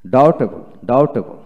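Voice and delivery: ডাউটেবল with no b before t; silent B. Shown as a demonstration. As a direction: say ডাউটেবল, straight from "au" to t. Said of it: "বি হবে না".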